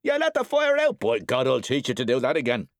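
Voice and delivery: loud, high enraged shout; father flying into a rage; furious. A narrator's reading. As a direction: threaten the boy in a fury. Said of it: "The man jumped up furiously".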